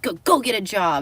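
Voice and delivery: lightly mocked, forceful telling-off; mock scolding. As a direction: order it like a pestering critic. Retold critics telling her off.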